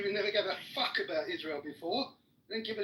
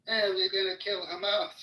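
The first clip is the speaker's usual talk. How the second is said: sneering parody, louder; mock the dismissive official line; mocking quote; 5 dB louder than usual. Mimicking Israel's defenders with scornful mockery.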